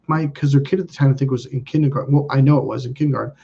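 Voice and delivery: usual speaking voice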